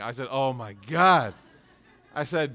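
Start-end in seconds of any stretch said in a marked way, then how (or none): 0.3-1.3 relieved exclamation. Retold or imitated. Reacting to son's answer.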